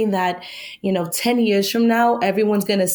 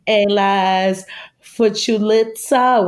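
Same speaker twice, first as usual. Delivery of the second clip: put-on slow, halting Spanish in a gringa accent; slower than usual. Podcast guest recites a film's mangled Spanish quote, gringa accent. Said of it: "said it in the accent".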